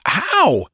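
sudden high "ow"; high pained yelp. A narrator's reading. Girl spanked by an open hand, yelping. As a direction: yelp as if smacked. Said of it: "Her yelp was induced by".

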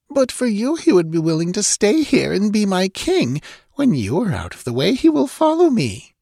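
high-pitched, imperious rival; gloating villainess. A narrator's reading. Captor claims her prisoner's warrior for herself, gloating. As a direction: gloat over your captive in a high voice.

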